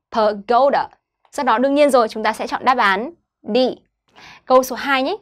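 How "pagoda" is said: "Pagoda" with GO leaned on, -da falling; stress on GO. Shown as a demonstration. Teacher repeats the word after explaining stress, GO stressed in "Pagoda". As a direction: land on GO in "Pagoda". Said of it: "âm thứ hai là âm go".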